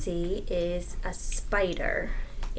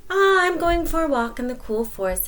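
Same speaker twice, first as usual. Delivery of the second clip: higher, louder sly spider; sly invitation; 8 semitones higher, 4 dB louder than usual. Acted. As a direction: lure him along. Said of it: "said Anansi".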